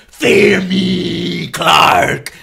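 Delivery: whispered gruff menace; slow hushed threat to Superman; mock-menacing whisper; mock Batman threat. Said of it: "you know".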